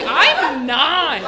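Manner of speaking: put-on high, loud child's protest; little kid voice. Kid tells the adults she's only nine, high child's voice. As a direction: squeak it like an indignant nine-year-old.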